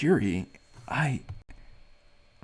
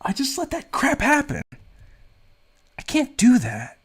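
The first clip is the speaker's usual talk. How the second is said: loud, higher, furious ranting; angry outburst; 6 semitones higher, 6 dB louder than usual. Acted. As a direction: yell it out in helpless rage. Character furious over girlfriend's ordeal.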